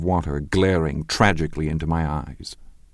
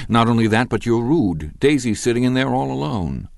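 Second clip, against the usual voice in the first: louder and higher, building rebuke; impatient scolding; 6 semitones higher, 3 dB louder than usual. A narrator's reading. Narrator scolds Gatsby for leaving Daisy alone, impatient and raised. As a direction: tell him off sharply.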